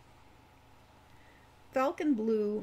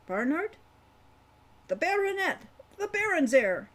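put-on higher, louder voice for a rambling old dwarf; 6 semitones higher, 4 dB louder than usual. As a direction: play the chatty old dwarf, a bit louder. Wolfgang recalls the fire.

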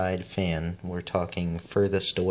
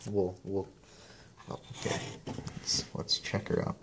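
whispered aside; 10 dB quieter than usual. Real, not acted. Quiet aside, half whispered to self.

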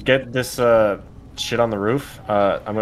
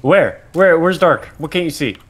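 exasperated disbelief; 7 semitones higher, 5 dB louder, slower than usual. Real, not acted. Exasperated reply.

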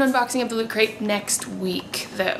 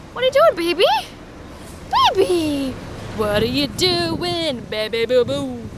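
put-on baby talk. Talking to the baby.

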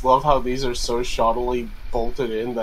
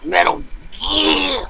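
excited shout; 14 semitones higher, slower than usual. Real, not acted. Excited recognition of the game.

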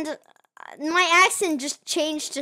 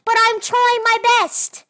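high, loud bad Australian-British accent; 6 semitones higher, 4 dB louder than usual. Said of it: "my Australian slash British accent".

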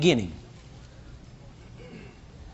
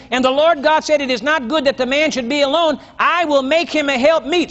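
raised, solemn Bible reading; scripture reading; 3 semitones higher than usual. Acted. Preacher reading Genesis to the congregation, solemn reading voice. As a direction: read the verse like holy writ.

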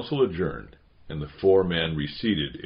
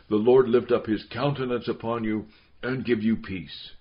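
slightly raised, measured ceremonial voice; solemn baptism blessing; 3 semitones higher than usual. A narrator's reading. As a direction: pronounce a blessing over a baby.

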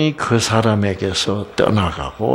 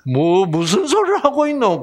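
Gyeongsang dialect; 6 semitones higher than usual. Retold or imitated. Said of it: "경상도 말에 뉘앙스를".

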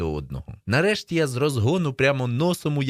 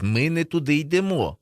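higher-pitched, winded worry; nearly out of breath; 6 semitones higher than usual. A narrator's reading. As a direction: break the news while short of breath. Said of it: "майже задихаючись".

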